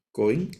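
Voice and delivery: cohen repeated with the accent on its first syllable; stress on first syllable. Shown as a demonstration. Teacher repeats the correct reading for students, cohen stressed on first syllable. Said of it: "el acento en la primera sílaba".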